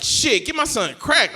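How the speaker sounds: slow, emphatic, sure-of-himself answer; mock confidence. Customer answering the barber's question, mock-confident. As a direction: imitate a man answering with total certainty. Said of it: "they both said it with such confidence".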